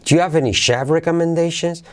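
"chef" at the high point, pitch held up after; question intonation. Shown as a demonstration. Teacher modelling native question, high peak on chef. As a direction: jump up on "chef" and keep it high. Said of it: "hey, para captar la entonación".

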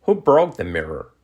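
connected example question; natural-speed model question. Shown as a demonstration. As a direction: run the words together naturally. Teacher models sentence at natural speed.

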